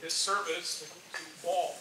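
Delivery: slow phrase landing on "all"; stress on "all". Real, not acted. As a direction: draw the line out to emphasize "all". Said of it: "I emphasize the word all".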